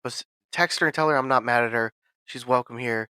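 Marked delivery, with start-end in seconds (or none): 0.0-1.3 tired boss. Retold or imitated. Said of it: "And he goes".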